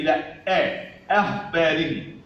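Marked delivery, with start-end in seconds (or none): 1.1-2.2 أخباري with thin front opening "a"; light hamza. Shown as a demonstration. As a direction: keep the first vowel of أخباري light. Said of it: "الهمزة مرققة". (أخباري بهمزة مرققة)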